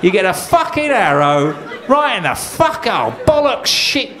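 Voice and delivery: King Harold cursing on the battlefield; raging wounded king. Acted. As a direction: rant in furious disbelief. King Harold with arrow in eye.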